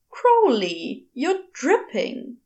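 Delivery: fussy, drawn-out protest; a mild prim complaint; objecting. Acted. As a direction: tut at the wet visitor. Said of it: "he objected".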